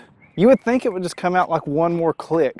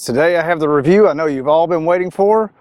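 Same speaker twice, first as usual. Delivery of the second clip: dry mock enthusiasm, louder; sarcastic; 6 dB louder than usual. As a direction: hype it up with obvious sarcasm. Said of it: "detected a little bit of sarcasm in my voice".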